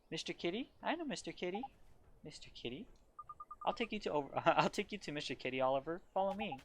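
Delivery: playful little helper leading the way; lightly voiced little girl.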